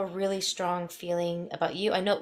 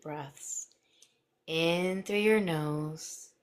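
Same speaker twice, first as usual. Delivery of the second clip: slow soothing hypnotist voice; hypnotic voice. Acted. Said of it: "I'm going to my hypnotic voice".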